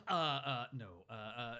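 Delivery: mock tongue-tied refusal; flustered stumbling. Shy man asked to dance, acting flustered. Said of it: "he's stumbling over".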